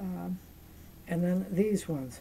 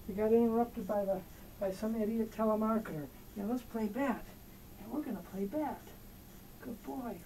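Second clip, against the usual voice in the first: squeaky praising a dog; 3 semitones higher, 8 dB quieter than usual. Real, not acted. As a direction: coo praise at the cat. Praising the cat.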